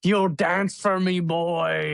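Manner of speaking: slow, drawn-out imitated taunt; mock Conor taunt. Co-host quoting fighter's taunt, slow mock swagger. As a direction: lean on it like a cocky brawler.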